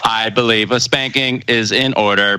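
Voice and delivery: flat, even robot monotone. Pretend. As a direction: stiff machine command. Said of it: "Sound like humans impersonating robots".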